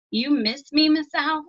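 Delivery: put-on high, child's voice on the edge of tears; a boy fighting back tears, lightly voiced; voice cracking. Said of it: "his voice started to crack".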